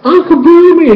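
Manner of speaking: high, loud happy shout; a crowd cheering their uncle; joyful call. Retold or imitated. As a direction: call out to him, delighted. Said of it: "Everybody's like".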